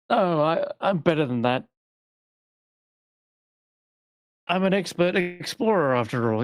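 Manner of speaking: high, cocky adventurer voice; boastful explorer. Acted. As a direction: brag like a proud explorer. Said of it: "And Garrett's like".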